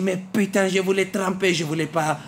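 high, loud outraged yelling; angry shout. Retold or imitated. Fares shouting at the girl who set him up, high and loud. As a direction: yell it in frustration. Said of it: "Je lui dis".

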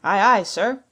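loud sailor's acknowledgement; crew's reply. A narrator's reading. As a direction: call back to the captain. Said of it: "answered two or three".

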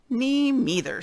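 high, small mouse voice piping up; tiny little voice. Acted. Mouse chimes in agreeing with the boars, tiny high voice. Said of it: "said a tiny little voice".

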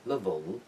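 "level" with the last L pulled back; tongue behind the ridge for the end of "level"; dark final L. Shown as a demonstration. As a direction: let "level" close on a dull, swallowed L.

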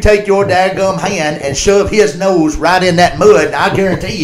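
emphatic imitation of a father instructing his son; father's advice. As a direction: lay down the law like Daddy, lightly voiced. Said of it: "his daddy told him".

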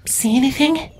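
very high, wary whisper-like ask; Tibia, alert. Acted. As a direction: scout checking the distance. Tibia the changeling voiced.

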